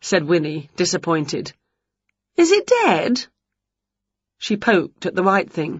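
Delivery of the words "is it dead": high wary witch voice; curious witch. Acted. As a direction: ask it half scared. Winnie poking.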